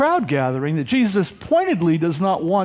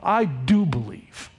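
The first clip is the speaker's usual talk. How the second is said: slow, low avowal; measured, weighty "I do believe"; emphatic; 4 semitones lower, slower than usual. Acted. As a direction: press steadily on "do believe". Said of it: "that's very emphatic".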